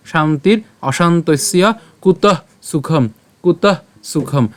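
slow, distinct শান্তির অশান্তস্য কুতঃ সুখম; said together. Shown as a demonstration. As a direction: join অশান্তস্য as one slow word. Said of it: "এটাও আমরা একসাথে উচ্চারণ করবো". (শান্তির অশান্তস্য কুতঃ সুখম ধীরে একসাথে)

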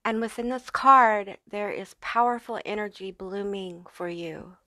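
slushy lisp on the s sounds. Real, not acted. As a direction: speak with a light lisp, s turning to sh. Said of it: "excuse my lisp here".

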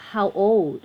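put-on "how old" read out slowly as one phrase; pronunciation demo. Shown as a demonstration. Teacher showing how the question phrase is read, slow pronunciation demo. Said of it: "ก็จะอ่านว่า".

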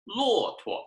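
teacher modelling neutral tone; model word. Shown as a demonstration. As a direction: lift 骆驼 high, let 驼 float. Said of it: "it just kind of floats".

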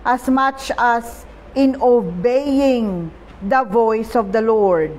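slow, measured Bible reading; scripture reading. Acted. Preacher reading First Samuel to the congregation, slow and measured. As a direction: read the verse slowly and solemnly.

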